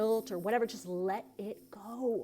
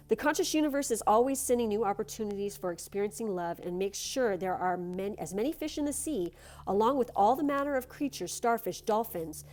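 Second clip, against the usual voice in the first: card reading; 2 semitones higher than usual. Acted. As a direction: read it like a gentle blessing. Reads the card text.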